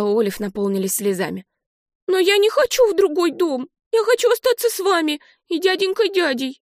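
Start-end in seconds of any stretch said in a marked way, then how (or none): 2.1-6.6 put-on high child's voice, mildly tearful; a small girl clinging to home; tearful little sister. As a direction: Olive begging her aunt, high and mildly upset. Olive tearful, not wanting to move.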